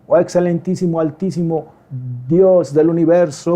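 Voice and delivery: lightly put-on grandiose praying; a touch of stilted, solemn address to God; mock pompous prayer. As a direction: draw out the lofty titles as if showing off. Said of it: "no estar usando palabras rebuscadas ahí".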